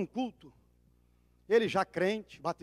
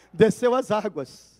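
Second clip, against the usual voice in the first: loud, slow, fervent sermon close; fiery pulpit finale; preaching at full force; 7 dB louder than usual. Acted. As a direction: proclaim it to the congregation.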